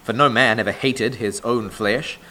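measured, solemn Bible reading from the pulpit; scripture reading. Acted. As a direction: read the verses aloud to the congregation, weighty and deliberate.

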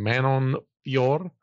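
"Fior" with a little tongue roll at the end. Real, not acted. Host jokily avoiding pronouncing the fighter's name right, rolled R. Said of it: "get the little roll of the tongue".

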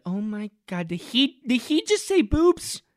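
high, hushed gasping disbelief; mock shocked anchor. Mocking the CNN anchor, high hushed shock. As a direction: play her scandalized. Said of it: "she's looking around like".

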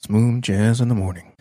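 smooth late-night radio DJ. Shown as a demonstration. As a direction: croon it like a jazz station host. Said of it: "I can't really turn it off".

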